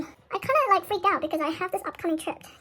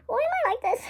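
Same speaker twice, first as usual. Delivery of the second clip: exasperated; 8 semitones higher than usual. Real, not acted. Exasperated at own laziness.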